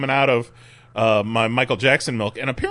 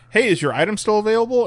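buyer voice; 8 semitones higher, faster than usual. Retold or imitated. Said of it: "each one of 'em was".

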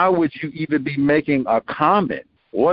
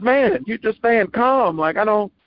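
bemused caller; 7 semitones higher than usual. Retold or imitated. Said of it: "And she says".

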